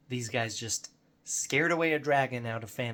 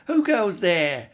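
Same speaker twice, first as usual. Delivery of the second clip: loud, high, drawn-out creature challenge; high-pitched guard's shout; wererat guard challenge; 8 semitones higher, 9 dB louder, slower than usual. Acted. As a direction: call out slowly like a suspicious rat sentry. Voices a wererat guard challenging intruders.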